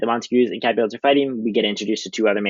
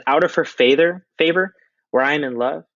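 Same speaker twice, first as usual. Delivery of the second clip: high, pained Romeo voice; lovesick Romeo; 6 semitones higher, 3 dB louder than usual. Acted. Romeo answering Benvolio, high and pained. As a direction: plead it like a wounded lover. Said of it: "Romeo says".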